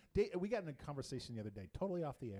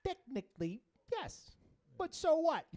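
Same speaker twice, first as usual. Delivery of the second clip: high, loud mocking singsong; squeaky mock; 10 semitones higher, 5 dB louder than usual. Host quotes the catchphrase again.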